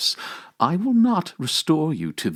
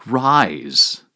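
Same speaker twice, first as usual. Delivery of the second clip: a louder single-word command; commanding call; 2 semitones higher, 6 dB louder than usual. Acted. Christ commands Adam to rise, louder call. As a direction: call him up out of the grave.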